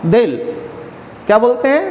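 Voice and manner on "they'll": "they'll" as one syllable, like dell; contracted they'll. Shown as a demonstration. Teacher modelling they with will, "they'll" in one falling syllable. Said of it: "they के साथ जब will बोलते हैं तो".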